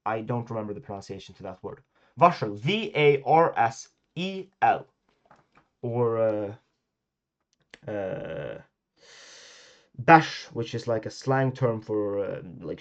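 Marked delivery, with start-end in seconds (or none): 2.2-2.5 Varsel slow, rs as sh, "vashel"; Swedish rs sound. Shown as a demonstration. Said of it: "We pronounce this like". 10.0-10.5 bash with rs said as sh; Swedish rs sound. Shown as a demonstration. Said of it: "sh sound".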